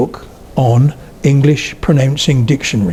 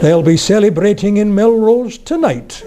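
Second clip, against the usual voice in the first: higher, quoting the commentator while laughing; the joke breaks him up as he says it; laughing through the quote; 6 semitones higher than usual. Retold or imitated. Retelling a commentator's line to the audience, laughing. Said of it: "he came out with".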